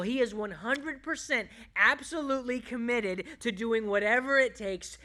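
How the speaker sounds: loud, emphatic pulpit delivery; impassioned preaching. Real, not acted. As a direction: build in force, driving each phrase home. Preaches at full force.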